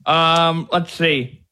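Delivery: talking around a pen; pen held in mouth; pen in teeth. Real, not acted. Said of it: "Sorry, I got my pen in my mouth".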